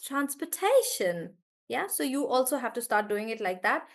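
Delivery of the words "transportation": slow transportation with ta stressed. Shown as a demonstration. Teacher models transportation slowly for the class. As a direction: draw out transportation, hit ta. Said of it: "Does that sound really good?".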